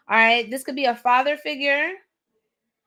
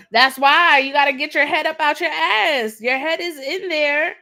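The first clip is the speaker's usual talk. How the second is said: forceful repeat; 4 semitones higher, 5 dB louder than usual. Real, not acted. Reader repeats spirit's advice forcefully.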